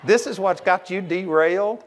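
chuckling through the words; laughing disbelief. Retold or imitated. Preacher laughing at a petty prayer-line problem. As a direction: laugh as you ask it. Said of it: "all I can do to keep from laughing".

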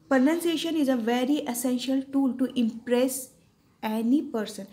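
very slow English sentence; teacher saying it word by word; slow dictation. Shown as a demonstration. Teacher dictating a sentence to students, slow. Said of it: "teacher dictating slowly".

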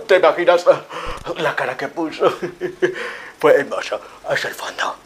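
loud laughing boast; laughing loudly. Acted. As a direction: cackle while bragging.

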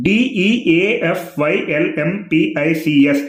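spelled out letter by letter. Shown as a demonstration. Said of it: "డెఫ్లింపిక్స్ అంటే".

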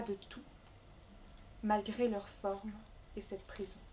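measured recital with long pauses between phrases; poem reading. Acted. Poet reading her Congo travel poem to the gathering, measured recital. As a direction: recite it line by line, letting each phrase settle.

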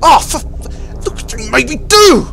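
exasperated outburst. Acted. Harry blames Ed for the broken hose. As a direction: throw the fault at him.

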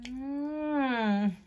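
humming while biting; mouth on food. Real, not acted. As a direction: teeth in donut. Seen 1: Teeth sunk into large donut throughout the hum; not biting before.

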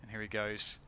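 lively esports caster call; play-by-play commentary. Acted.

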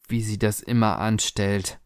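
understated stunned repetition; disbelieving echo. Acted. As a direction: quote it back, appalled. Daughter echoes it in disbelief.

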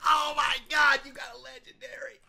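mock awe, dropping to a tiny voice; put-on envious gushing; jealous friends. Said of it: "guys are gonna be so jealous".

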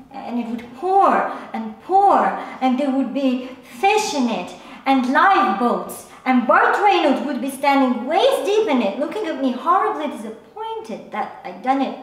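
animated, swooping storytelling; worked-up account of a wild dream; agitated dream retelling. Acted. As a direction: let the disaster pour out with mounting urgency. Recounting a crazy dream disaster.

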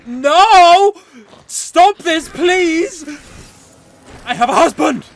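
hammed-up loud pleading; mock damsel plea. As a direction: play a mock distressed wife begging. Mock plea to choking enemy.

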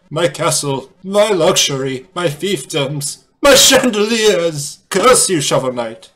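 drawn-out, hammed-up lament rising high and loud; lamenting villain. Defeated villain cursing Shovel Knight over lost riches, theatrical lament.

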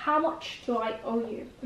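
How much do I owe you said word by word, very slowly; slow, deliberate repeat for students to copy; very slow drill. Shown as a demonstration. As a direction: spell it out slowly for learners. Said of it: "باید بگی".

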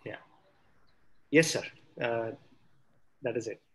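normal talking voice

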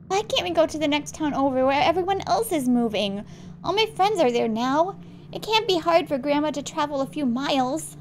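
lightly voiced kid, a little whiny; pleading kid. Kid asking dad to move towns, pleading.

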